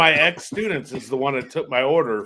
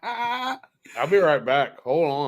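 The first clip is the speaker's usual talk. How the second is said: laughing; 2 semitones higher, much slower than usual. Real, not acted. Burning mouth, laughing, stepping away.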